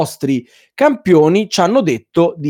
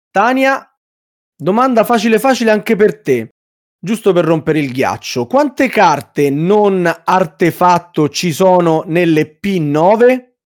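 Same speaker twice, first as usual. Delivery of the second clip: showy game show host. Acted. Host reads question, slow.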